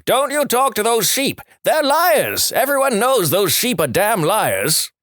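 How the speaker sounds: high, frantic yelling protest; outraged shout. Acted. Red-faced farmer yelling at the ventriloquist, high panicked outrage.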